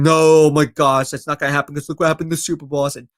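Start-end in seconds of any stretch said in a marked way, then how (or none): 0.0-1.1 mock outcry. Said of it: "People saying". 1.1-2.8 mock rushed objection. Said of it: "People saying".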